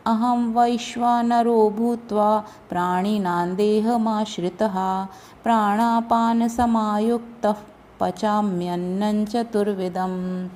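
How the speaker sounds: measured, level chant of a shloka; Sanskrit verse recitation. Shown as a demonstration. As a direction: recite the shloka evenly with drawn-out long vowels.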